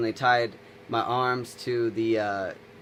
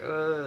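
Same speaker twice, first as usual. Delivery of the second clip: high, frustrated mock groan; acted "ugh" of helpless anger; freaking-out groan; 6 semitones higher than usual. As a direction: groan it, pitched up. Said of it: "freaking out".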